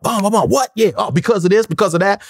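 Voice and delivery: acting out quick interruptions; fired up. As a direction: jump in on them, fired up. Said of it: "I was just fired up".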